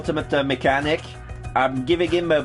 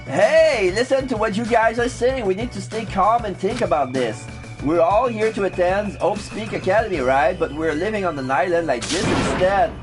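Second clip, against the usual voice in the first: raised urging voice; 4 semitones higher than usual. Acted. Character lecturing group.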